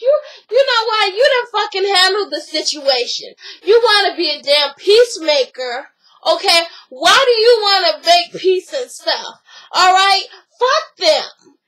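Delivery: heated mock telling-off, pitch jumping up in bursts; retold angry scolding. Retelling a woman berating her boyfriend as peacemaker, angry.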